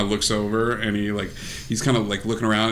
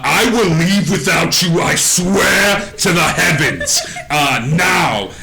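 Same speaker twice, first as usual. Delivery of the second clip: pixie threat; 5 semitones higher, 3 dB louder, slower than usual. Acted.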